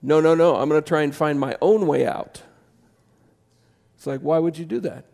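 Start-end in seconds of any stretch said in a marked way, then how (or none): 0.0-2.4 a hint of a stubborn prisoner refusing to leave; lightly voiced, refusing the open door with loud stubbornness. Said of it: "in our jail cell and say".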